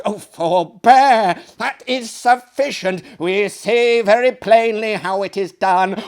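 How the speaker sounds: loud, hurried pleading; urgent protest. Acted. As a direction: cry out to stop her now. Guests stop undressing lady.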